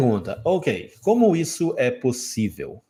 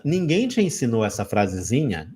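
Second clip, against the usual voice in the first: ordinary talk, nothing marked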